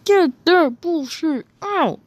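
mock angry demand. Ranting against the ship.

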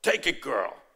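firm Italian father urging, imitated; Italian accent. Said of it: "he said in his Italian accent".

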